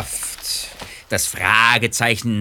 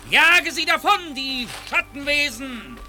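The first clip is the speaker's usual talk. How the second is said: excited command; 10 semitones higher than usual. Acted. Drago commanding his iron man.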